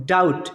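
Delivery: डाउट as "dout", vowel straight into T; डाउट ending on T alone; silent B. Shown as a demonstration. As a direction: say डाउट with no B before the T. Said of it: "बी यहाँ पे silent होता है".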